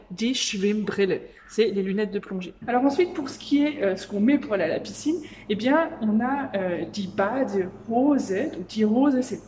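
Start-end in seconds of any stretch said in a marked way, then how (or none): 0.1-1.2 "das Schwimmbecken" drawn out slowly and clearly; teacher modelling a German word slowly; slow vocabulary demo. Shown as a demonstration. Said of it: "Je vais t'apprendre du vocabulaire". 6.8-8.3 "das Schwimmbecken" drawn out slowly and clearly; teacher modelling a German word slowly; slow vocabulary demo. Shown as a demonstration. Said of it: "Je vais t'apprendre du vocabulaire".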